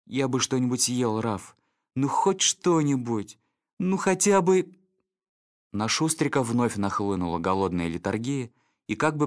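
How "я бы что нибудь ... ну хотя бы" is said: slow, rising plea; pleading hungry dog. Acted. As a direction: drift off pleading. Snitter begs for food.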